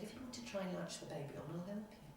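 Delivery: softly offered help, acted; a gentle, quiet nurse offering a hand; lightly voiced kindly nurse; nice nurse. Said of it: "this nice theatre nurse said".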